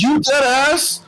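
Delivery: high-pitched disbelief; real, heated disbelief; incredulous challenge. Real, not acted. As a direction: pitch jumps up, demanding if it's serious. Challenging friend's answer in disbelief.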